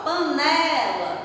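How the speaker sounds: "panela" slowed, leaning on a long NE; stress on NE. Shown as a demonstration. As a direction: let NE stand out in "panela". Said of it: "o né se destaca". ("panela" com a sílaba NE alongada e destacada)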